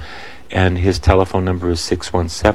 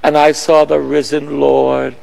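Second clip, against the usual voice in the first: awed testimony; 6 semitones higher than usual. Retold or imitated. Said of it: "She said".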